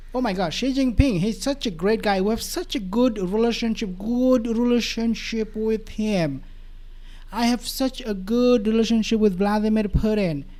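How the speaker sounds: mock admiring boast, a hint of the president; imitating the president's praise. Analyst mimicking how the president praises Xi and Putin, mild gushing impression. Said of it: "does he talk like this?".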